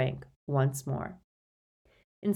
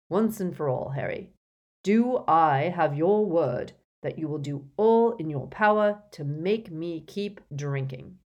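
demanding a promise; firm, unbending old voice; stern old wizard; 5 dB louder than usual. Acted. Dumbledore insists on promise.

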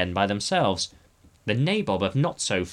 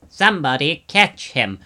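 raised, loud call for help; urgent cry; 4 semitones higher, 7 dB louder than usual. A narrator's reading. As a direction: cry out to the others, higher and louder. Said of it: "cried the Prime Minister".

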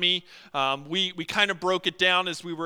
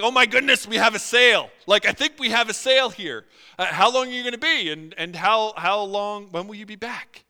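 louder, eager rush of hope; excited; 3 semitones higher, 7 dB louder than usual. Retold or imitated. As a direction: gush like a salesman sensing a sale. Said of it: "You get excited in your heart".

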